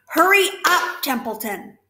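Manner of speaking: the pig urges the rat on; urgent hurry. Acted. Wilbur urging the rat.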